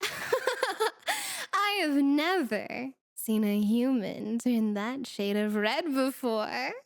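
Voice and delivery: slow, laughing through the words. Acted. Demon delighted at the mage turning red, laughing. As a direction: chuckle while savouring it. Demon amused by the mage's blush.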